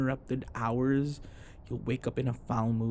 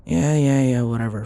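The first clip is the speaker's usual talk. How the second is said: irritated snap; 2 semitones higher, 10 dB louder than usual. Acted. Snapping back at partner's jab.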